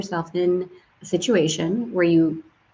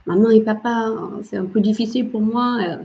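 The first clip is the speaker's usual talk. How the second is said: French; 3 semitones higher than usual. Retold or imitated. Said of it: "went right back into his French".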